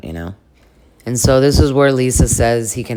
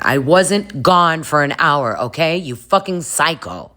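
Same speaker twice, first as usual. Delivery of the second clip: higher, mock-indignant retort; defensive snap; 5 semitones higher than usual. Denying being gone an hour, mock-indignant snap. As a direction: cut in, mock outraged. Snaps at the accusation.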